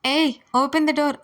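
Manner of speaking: slow, loud call through the door; drawn-out shout. Acted. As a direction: stretch out each word, yelling to be let out. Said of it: "అని గట్టిగా కొడుతూ". (నెమ్మదిగా సాగదీసిన అరుపు)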